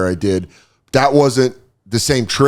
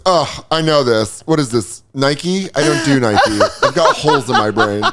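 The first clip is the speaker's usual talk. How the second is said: mildly sassy patient act; a touch of theatrical sass; 4 semitones higher than usual. Acted. Jaded patient brushing off the question, mildly sassy. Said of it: "He's still sassy".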